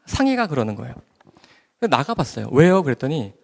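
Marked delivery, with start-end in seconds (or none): 0.1-0.5 urgent calling. Retold or imitated. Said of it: "저를 막 부르는 거예요". 2.5-2.8 loud, high "what?"; irritated answer. Retold or imitated. Daughter answering her mother's call, loud and irritated.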